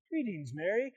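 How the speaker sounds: soft, unexcited hello, rising at the end; understated greeting. Acted. Angel to Mary without any excitement, understated greeting. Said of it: "probably not just like".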